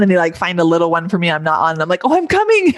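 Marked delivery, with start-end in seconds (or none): 2.0-2.7 high-pitched mock "on my way" call; high, sing-out reply in a retold exchange; playful calling out. Acting out her eager reply.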